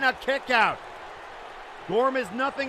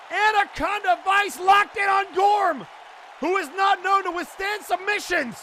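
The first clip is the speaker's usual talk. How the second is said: excited call; 4 semitones higher than usual. Real, not acted. Commentator calling the title-deciding hold, excited shouting. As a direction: sell the big submission to the crowd.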